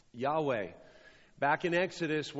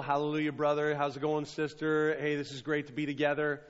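fake churchy greeting; faster than usual. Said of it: "around other people".

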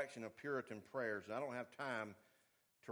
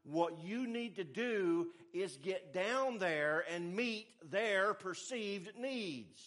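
mock advice; 5 semitones higher, 5 dB louder, slower than usual. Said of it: "He was saying".

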